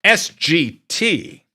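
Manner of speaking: S G T spelled out slowly, each letter apart; slow clear letters S G T. Shown as a demonstration. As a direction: spell the handle slowly for chat. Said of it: "I will say that slower".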